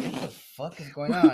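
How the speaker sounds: loud, startled exclamation; retold startled outburst. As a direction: blurt it out loudly, reliving the shock. Retells startled reaction to crash.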